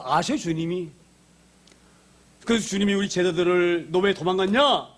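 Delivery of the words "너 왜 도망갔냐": raised, higher-pitched pretend telling-off; mock scolding. Imagined Lord faulting runaway disciples, mock scolding. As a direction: scold them as if fed up. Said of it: "이러고 제자들을 꾸짖거나".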